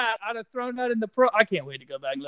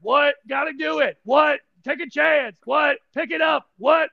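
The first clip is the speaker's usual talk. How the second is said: what cadence demo; 7 semitones higher than usual. Shown as a demonstration. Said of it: "You are completely fucking up the what cadence".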